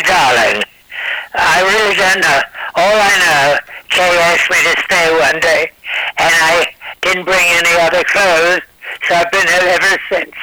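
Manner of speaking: lightly voiced English housekeeper; English accent. Guest speaks as the English housekeeper in a light accent. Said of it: "I should always say".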